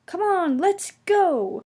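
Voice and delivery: rally yourself to set off; high eager call. A narrator's reading. Percy setting off eagerly.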